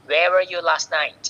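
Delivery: demonstrated WH-question, dropping at "night"; falling intonation. Shown as a demonstration. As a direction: let the pitch fall on "night". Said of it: "ลงท้ายเสียงต่".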